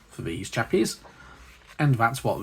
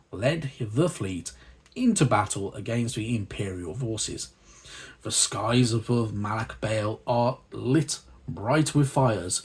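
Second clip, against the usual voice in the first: lore reading. Acted. Host reading the magazine's lore to viewers, measured narration. Reads lore section aloud.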